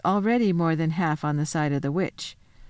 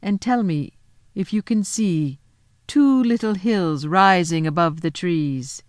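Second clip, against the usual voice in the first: a lightly voiced queen, a little louder and commanding; the Queen, coaxing; 4 dB louder, slower than usual. The Witch Queen giving Edmund directions, lightly voiced and coaxing. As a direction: play the queen luring the boy gently.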